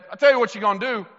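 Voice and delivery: commanding mock-commander delivery; acted rallying speech. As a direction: play a leader ordering scared men to fight. Leaders rallying frightened men, acted.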